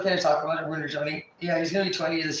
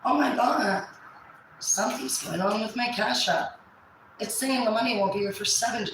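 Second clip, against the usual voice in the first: mocking a friend's fake panic; Amanda's spiel; 5 semitones higher than usual. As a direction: play up a fake money crisis. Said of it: "here comes Amanda spiel".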